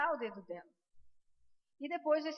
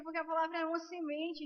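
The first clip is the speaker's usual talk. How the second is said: normal talking voice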